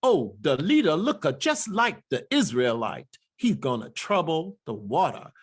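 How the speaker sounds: "the" as "duh", "leader" as "leadah"; spiritual dialect. Shown as a demonstration. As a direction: dialect D for TH, no R in "water". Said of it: "all of that dialect".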